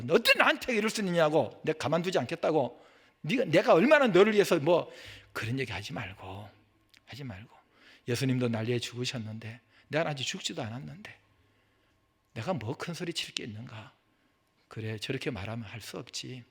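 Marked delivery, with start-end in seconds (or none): 0.0-4.9 acting out a hurt, defiant retort; lightly raised, quarrelsome protest; mock indignant comeback. Believer fighting back when criticized, mock indignant comeback. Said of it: "그러면서 대들고 싸우고 그러지 말고". 8.1-16.4 soft, low talking to oneself; quiet resignation. Acted. Criticized believer reasoning with himself, quiet resignation. Acts out meekly accepting harsh criticism.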